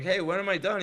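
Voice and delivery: high-pitched call to a guard; retold call from the shower. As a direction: ask it high, as if calling over.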